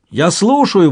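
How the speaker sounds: loud call of I'm listening; shouted over the shoe brushing; shouting out. Acted. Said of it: "выкрикивал он".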